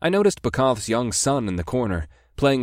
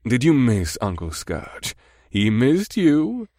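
cooing; 3 semitones higher, slower than usual. Acted. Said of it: "Scourge cooed".

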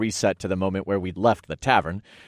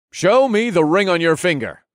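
loud, high commanding god voice; 9 semitones higher, 6 dB louder than usual. Acted. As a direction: command him with divine authority. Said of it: "I commanded in my God voice".

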